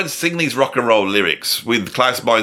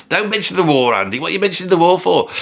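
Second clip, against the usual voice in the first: higher-pitched, hurried mock reproach; mock scolding; 6 semitones higher, faster than usual. Comedian telling himself off for mentioning the war, mock scolding. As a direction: scold yourself in mock alarm.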